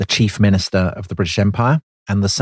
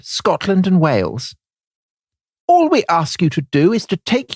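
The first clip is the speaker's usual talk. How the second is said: grand oration; 8 semitones higher than usual. Retold or imitated. Prime minister inviting De Valera into the empire, rising oration. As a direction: build up the invitation like a grand speech. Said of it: "David said to De Valera".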